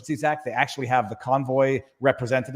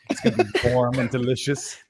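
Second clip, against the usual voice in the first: ASMR voice; 3 semitones lower than usual. Retold or imitated. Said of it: "A-, A S M R".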